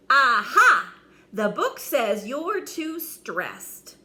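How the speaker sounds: loud, bursting triumphant discovery; eager knight proud of his find; triumphant aha. A narrator's reading. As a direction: announce it like a eureka. Eager knight reads book.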